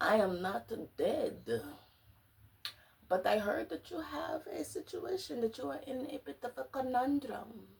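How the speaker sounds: heavy, thick, high put-on Eastern European accent. Retelling what a lady said after coming to, thick Eastern European accent. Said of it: "really thick, like, Eastern European or some kind of European accent".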